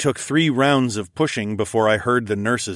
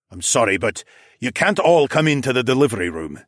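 frowning apology; 3 semitones higher, 4 dB louder than usual. A narrator's reading. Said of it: "he said with a frown".

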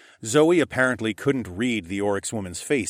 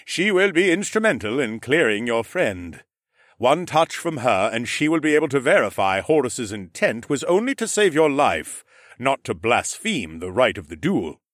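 Mech's voice; 3 semitones higher, 5 dB louder than usual. A narrator's reading. Mech explaining Amaya's nature to Asher, measured. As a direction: speak as the calm Ram Lord explaining.

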